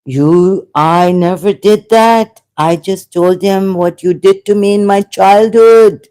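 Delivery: loud, high shouting at her. Retold or imitated. In the dream, shouting at his dead grandmother, loud and high. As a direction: shout the accusation back at her. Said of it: "So I had to shout".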